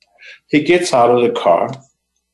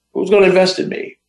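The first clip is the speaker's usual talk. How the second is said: pitched up high in disbelief; incredulous retold question; 10 semitones higher, faster than usual. Doubting himself to the woman who suggested investors, incredulous. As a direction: retell your self-doubt in a much higher voice. Retelling his own self-doubt.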